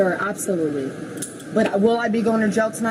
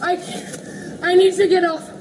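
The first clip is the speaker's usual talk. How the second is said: breathless pleading; 9 semitones higher, slower than usual. Real, not acted. Woman under officers gasping to be let up, breathless plea. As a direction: gasp out that you need up.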